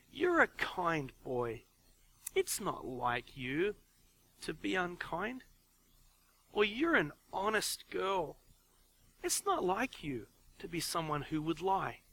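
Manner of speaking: slow, soft, kind correction; gentle correction. Shown as a demonstration. Parent correcting a child, gentle and slow. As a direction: correct the child gently, reminding them who they are. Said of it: "So it's like".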